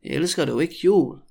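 careful, joined-up question; slow demonstration. Shown as a demonstration. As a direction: ask it clearly for repetition. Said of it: "when I say it really slowly".

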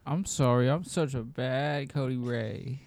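bad girl voice. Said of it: "Now say it like you're a bad girl".

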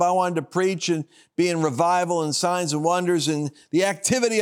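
put-on high, fast, pleading prayer of a young zealot; eager young prayer. Young man pleading with the Lord to preach. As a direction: rush the words out like an eager young believer.

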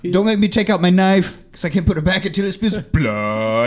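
Brooklyn tough guy with a knife threat; Brooklyn accent. Retold or imitated. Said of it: "This is a fucking Brooklyn accent".

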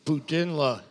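playful mock Sturgeon Falls accent. Co-host echoing the host's joke, mock Sturgeon Falls accent. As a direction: put on a rough French-Canadian accent from Sturgeon Falls. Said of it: "almost as good as your singer impression".

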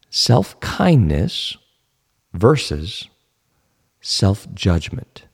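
self-kindness and self-judgment stretched out slowly, each word weighted; slow emphatic contrast. Shown as a demonstration. Teacher spelling out self-kindness versus self-judgment slowly. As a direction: lay the two terms out slowly, like a teacher writing them on the board. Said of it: "think about the differences".

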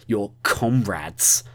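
slow, contemptuous spitting of the words; spat with contempt. Acted. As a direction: drag it out with disgust. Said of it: "he spat the word".

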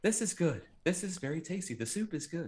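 high, soft mannequin imitation; weird dubbed voice. Mannequin praises the soup at dinner, weird dubbed voice. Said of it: "like, eighty-yard voice".

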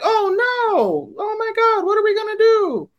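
high, squeaky panicked voice; hammed-up high panicked squeal; mock panic. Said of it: "they're like".

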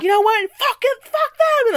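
high, loud exasperated cry; hammed-up rage; mock outburst. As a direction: fling it away in fake fury. Imagined staff giving up, acted.

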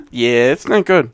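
slow, drawn-out cartoon dad voice; lightly voiced cartoon dad, taking it slowly; Peter Griffin. Teasing co-host about simple understanding, cartoon dad voice. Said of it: "like the Peter Griffin".

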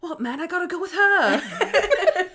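high, slow, giggling mock whine; laughing too hard to say the line straight; laughing through the quote. Retelling a sitcom joke to a friend, laughing.

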